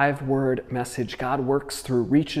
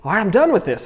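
hammed-up fed-up outburst, higher and louder; acted exasperated anger; 6 semitones higher, 5 dB louder than usual. Jonah to God after the plant dies, mock angry and fed up. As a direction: throw a mock fit of despair. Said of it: "He gets even angrier".

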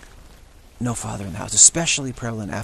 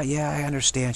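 higher, sweet mock-mom reply; mother humoring her kid, higher and sweet; nice cop mom; 4 semitones higher than usual. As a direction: play the agreeable mom saying yeah, I understand. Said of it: "She plays the nice cop".

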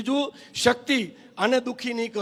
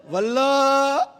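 wife calling her husband's name; 3 semitones higher, much slower than usual. Retold or imitated. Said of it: "પત્ની કેટલી મૂડમાં છે".

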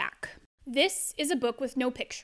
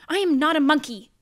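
indignant denial; 3 semitones higher, 7 dB louder, faster than usual. Acted. Reader denies being a monkey.

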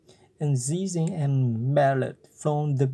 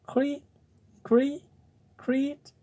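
high squeaky dying creak; a last thin cricket creak, high-pitched; cricket's cry; 12 semitones higher than usual. Acted. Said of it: "had scarcely time to cry".

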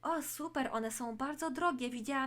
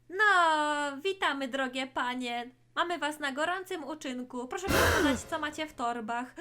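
loud, commanding officer; stern police call; 5 dB louder than usual. Acted. Police officer catches the twins, loud and commanding. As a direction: bark the order at the thieves.

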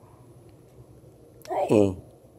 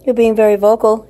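pet talk; 10 semitones higher, 12 dB louder than usual. Real, not acted. Owner cooing at her chatty cat, high loud pet talk.

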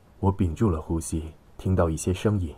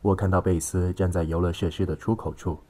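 ordinary delivery, nothing marked

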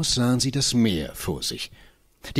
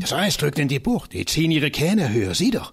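excited; 4 semitones higher than usual. Acted. Boy points out the ice.

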